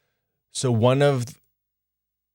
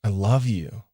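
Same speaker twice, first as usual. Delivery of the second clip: tender reassurance. Shown as a demonstration. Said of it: "I look into her eyes and be like".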